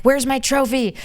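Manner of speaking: high, demanding mock toddler; greedy child. Imitating a greedy toddler demanding a prize, high pitched. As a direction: whine for the prize you expect. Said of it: "No adult would be like".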